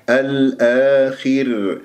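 الآخر ending in a thin ra, very slow; light ra. Shown as a demonstration. Teacher showing the light ra in الآخر, slowly. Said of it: "مرققة".

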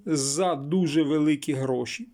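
slow, weighted stress on "дуже великі гроші"; emphatic stress. Real, not acted. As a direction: underline "за дуже великі гроші" by drawing it out slowly. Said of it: "підкреслюю".

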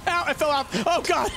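startled yelps after a crash; tripping and falling. Real, not acted. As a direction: caught off guard by a spill. Bike crash in game.

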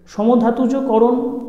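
সমধাতুজ slowly with a rise; slow emphasis. Shown as a demonstration. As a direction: dwell on সমধাতুজ, stress it. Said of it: "যদি আমরা শব্দটার উপরে একটু জোর দিই".

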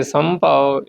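ਸੰਭਾਉ joined together without a break; said as one word. Shown as a demonstration. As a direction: say ਸੰਭਾਉ as a single run. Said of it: "ਸੰਭਾਉ ਪਾਠ ਜਿਹੜਾ ਇਕੱਠਾ ਬੋਲਣਾ ਹੈ". (ਸੰਭਾਉ ਇਕੱਠਾ ਬੋਲਣਾ)

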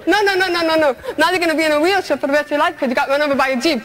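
high, fast mocking no no no; taunting voice of fate. Fate sentencing her to a wheelchair, fast taunting.

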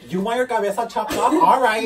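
gangster. Retold or imitated. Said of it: "this bitch went fucking gangster ass shit".

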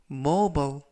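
"mobile" again as MO-bal, falling; English word repeated. Shown as a demonstration. Teacher repeats "mobile" for learners. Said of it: "mobile이라고 발음하시면 되겠고요".

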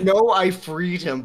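slow mocking echo; mocking imitation. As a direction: parrot him back slowly. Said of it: "You say, you say".

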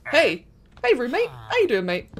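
loud friendly hail to a new roommate; cheery calling out. Real, not acted. Player greets the villager whose bed she shares, calling out loud. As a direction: call across the room, matey.

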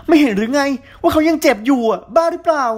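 cracked cry. A narrator's reading. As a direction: cry out in alarm to pull them apart. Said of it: "ร้องเสียงหลง".

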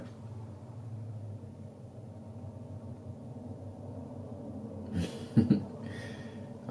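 soft, breath-only chuckle; small real laugh mid-meditation; quiet laugh. Real, not acted. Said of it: "grateful for the opportunity to laugh".

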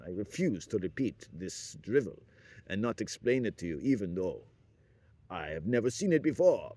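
hammed-up mock Asian accent. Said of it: "Imagine if Stalin was Oriental".

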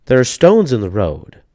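put-on old lady pointing to the road; lightly voiced old woman; little old lady. A narrator's reading. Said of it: "said the little old lady".

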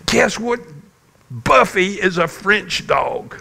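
high-pitched retold child's excitement; excited little girl. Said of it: "you were so excited".

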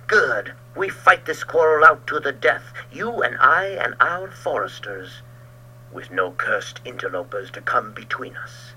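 loud, snarling vow to fight; snarling challenge. Acted. Georg accepting Ulrich's feud to the death, snarling. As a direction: spit out the challenge. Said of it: "snarled Georg".

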